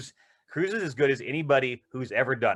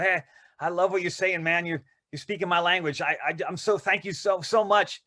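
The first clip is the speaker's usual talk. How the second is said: higher, breathless fan gushing; 5 semitones higher than usual. Acted. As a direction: overflow like a starstruck follower. Gushing fan plant greeting Cruise.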